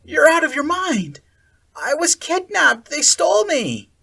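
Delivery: high, loud furious insistence; outraged. A narrator's reading. Akira accusing Sally Ann, loud and outraged. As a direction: throw the accusation at her.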